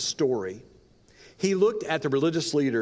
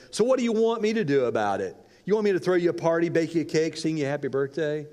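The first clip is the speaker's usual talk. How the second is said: mocking retort; 2 semitones higher, faster than usual. Prostitute mocking her friend's birthday, quick sarcastic sneer. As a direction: sneer it out fast, brushing her off.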